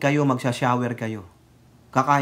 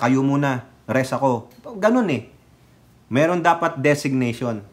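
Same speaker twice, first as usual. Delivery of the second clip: ordinary talk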